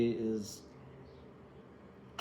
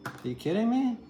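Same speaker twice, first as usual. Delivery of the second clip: sudden high, incredulous outburst; can't believe what she sees; 11 semitones higher than usual. Real, not acted. Reader shocked at the card, high incredulous cry.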